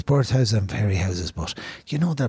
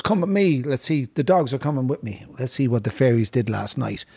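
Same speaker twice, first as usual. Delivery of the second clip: imitating the fairy-house man; 3 semitones higher than usual. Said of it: "he goes".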